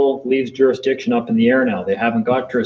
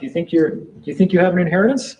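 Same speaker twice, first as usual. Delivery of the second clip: higher, needling sarcastic tone; mocking official; 5 semitones higher than usual. Court official needling a defendant, sarcastic and higher. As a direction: poke at the defendant like a smug clerk. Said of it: "Now we go back to the Bible stuff".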